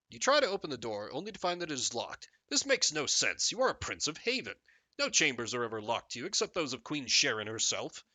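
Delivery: measured storybook narrator; expressive read-aloud narration; game story narration. Acted.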